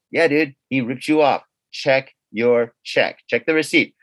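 low, slow conscience voice; Jiminy Cricket. Retold or imitated. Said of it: "maybe it's my Jiminy Cricket".

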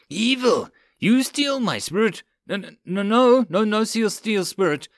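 high, frantic panic; panicked high cry. Acted. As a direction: shriek it in terror. Frightened cat girl accusing.

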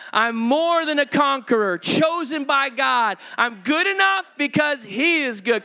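reading with courage. Real, not acted. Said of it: "You're gonna read it with courage".

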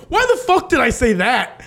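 high-pitched retold regret; mock-panicked self-scolding; exasperated self-reproach. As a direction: kick yourself for saying it. Retold regret at his own words.

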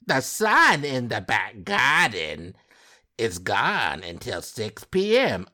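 slow, put-on British accent; mock-British reading, stretched and theatrical. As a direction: exaggerate a British woman's complaint, drawing it out. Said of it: "That's my British accent".

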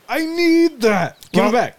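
high pleading shout. Acted. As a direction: beg loudly, voice high and stretched. Character demands gun back.

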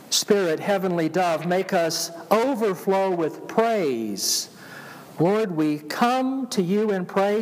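slow, prayerful recitation; reciting hymn lyrics. Acted.

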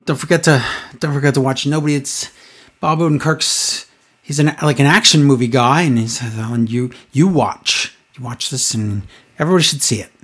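low, quiet, inflectionless announcing; mumbled commentator monotone. Retold or imitated. Co-host mimicking announcer sneaking in a plug, mumbled monotone. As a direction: trail along softly with no sense of cadence. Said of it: "no awareness of his own cadence".

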